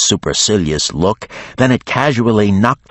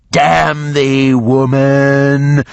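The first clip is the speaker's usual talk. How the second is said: higher, louder dragon curse; cursing dragon; 8 semitones higher, 5 dB louder, much slower than usual. A narrator's reading. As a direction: curse her like an old beast. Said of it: "the dragon said".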